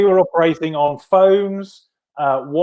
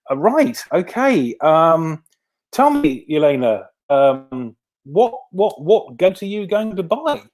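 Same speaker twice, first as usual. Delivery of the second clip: baffled interviewer; 2 semitones higher, slower than usual. Retold or imitated. Interviewer asking athlete about a goat, lightly acted bafflement. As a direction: imitate an interviewer groping for the next question.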